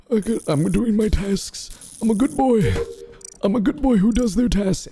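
put-on innocent good boy voice. Playing innocent.

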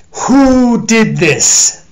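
thunderous demand; thundering God. Acted. The Lord finding his ruined grapes, thundering. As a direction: boom it out as an angry God. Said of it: "thundered the Lord".

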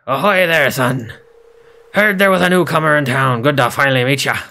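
lightly voiced gruff pirate; a hint of a hearty old sea dog; playful mock pirate greeting. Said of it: "like a pirate voice".

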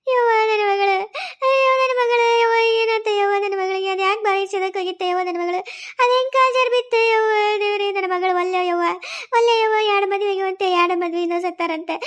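tearful sing-song keening; acted lament. Parent mourning a daughter drowned in the well, lamenting. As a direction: wail through the words, drawing out each cry.

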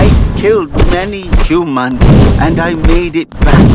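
high, hurried and desperate; pleading. Acted. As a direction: rush to justify yourself. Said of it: "he pleaded".

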